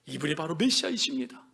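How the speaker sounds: subdued, reverent affirmation; hushed declaration. Acted. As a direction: say it low, with quiet conviction. Same proclamation repeated in hushed voice.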